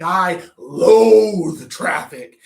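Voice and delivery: hammed-up tearful whine; mock crying. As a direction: wail it as if traffic broke you. Mock anguish about traffic.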